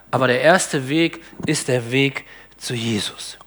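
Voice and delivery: hushed, slow whisper of the lesson; whispered point. Acted. Preacher whispering the key lesson to the congregation. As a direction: breathe it slowly like a secret.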